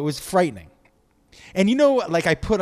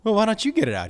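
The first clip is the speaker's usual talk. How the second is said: exasperated; 8 semitones higher, faster than usual. Retold or imitated. Retold exasperated reply to dad.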